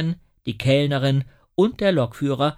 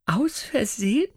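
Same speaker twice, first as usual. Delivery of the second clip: much higher and louder, outraged; the conductor exploding at the inspector; indignant outburst; 12 semitones higher, 6 dB louder than usual. A narrator's reading. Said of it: "faucht die Schaffnerin empört". (Schaffnerin, empört und viel lauter)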